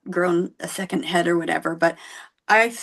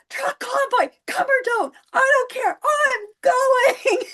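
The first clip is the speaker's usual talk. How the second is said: high-pitched frantic holler; excited screaming; slower than usual. Retold or imitated. Mom running out the door to the convoy, screaming excitedly. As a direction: shriek it as you dash off. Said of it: "screaming at the top of my lungs".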